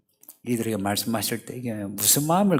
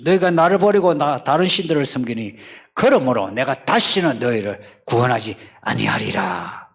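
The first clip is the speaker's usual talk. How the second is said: angry outburst; 5 dB louder than usual. Acted. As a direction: flare up, then pronounce the sentence firmly. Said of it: "버럭 하나님이 화내시면서 하시는 말씀이".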